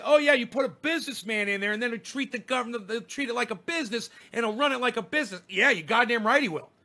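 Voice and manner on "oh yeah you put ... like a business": mocking quote. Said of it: "they say".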